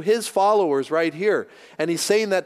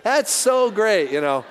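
enthusiastic Englishman; 3 semitones higher than usual. Retold or imitated. Pastor imitates the pub owner on the plane, mildly raised and gushing. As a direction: gush like an excited tourist. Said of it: "He goes".

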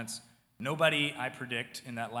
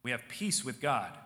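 retold loud speech; 3 dB louder than usual. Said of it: "he began to say loudly".

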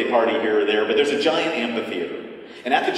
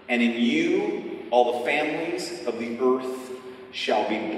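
measured, deliberate reading of scripture. Acted. Pastor reading Scripture aloud to the congregation, measured and deliberate.

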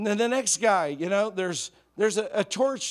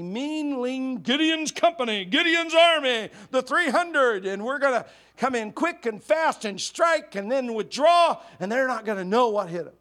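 rising, louder, higher battle fervor; excited battle plan; 6 semitones higher, 6 dB louder than usual. Retold or imitated. Preacher voicing Gideon's plan, building into excited fervor. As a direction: pump up the raid like a war cry. Gideon dreaming up a guerrilla raid.

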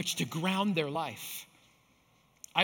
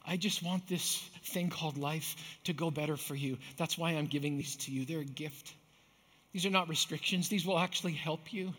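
soft, tender fatherly voice; loving father; 2 semitones lower, 4 dB quieter than usual. Pretend. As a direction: gently reassure your children. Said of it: "a loving heavenly father speaking".

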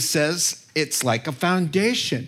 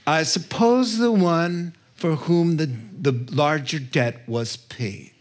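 grudging Pharisee. Acted. Pharisee answering Jesus's question about the debt, grudging. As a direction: give the right answer unwillingly, trailing down. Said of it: "I know the answer and I'm not happy about this".

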